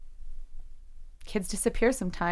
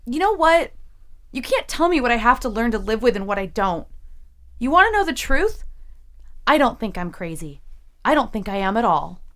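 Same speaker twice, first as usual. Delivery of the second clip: louder, pushing back hard; angry defiance; 3 semitones higher, 5 dB louder than usual. Acted. Jesse defying her therapist, angry and loud. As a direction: stand up and fight back.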